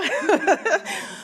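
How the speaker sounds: light, high laugh; amused laugh. Real, not acted. Novelist joking to audience about Dickens, amused laugh. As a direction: chuckle at your own joke.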